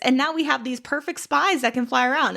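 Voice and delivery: high, gushing, flattering voice; fawning flattery. Retold or imitated. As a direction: lay the flattery on thick. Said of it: "and then also".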